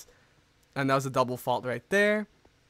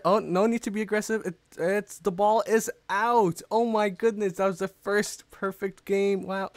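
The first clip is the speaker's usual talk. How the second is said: raised, amazed match-point call; excited commentary; 4 semitones higher than usual. Real, not acted. Commentator calling the ball out to end the game, excited. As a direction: announce the result with amazed excitement.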